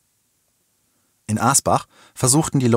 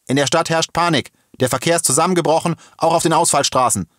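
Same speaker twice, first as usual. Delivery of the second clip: high, projected police announcement; megaphone bellow; 8 semitones higher, 3 dB louder than usual. A narrator's reading. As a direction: call urgent news out to a crowd. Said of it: "brüllte der Polizist mit dem Megafon".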